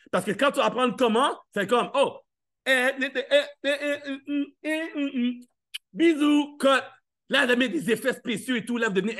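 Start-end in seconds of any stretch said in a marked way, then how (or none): 1.9-6.8 higher, silly posing noises; mock TikToker. Mocking an influencer filming, hammed-up sing-song. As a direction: ham up a selfie video.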